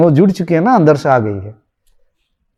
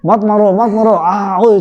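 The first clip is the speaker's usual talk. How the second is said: higher-pitched pleading with moans; mock dream cry; 5 semitones higher, slower than usual. Wife thrashing in her nightmare, mock frightened cry. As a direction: imitate crying out in a nightmare. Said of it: "स्वप्न में चिल्ला रही है".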